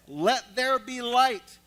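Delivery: booming slow divine command; voice of God. Acted. Preacher voicing God creating light, booming and slow. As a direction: proclaim it like God speaking.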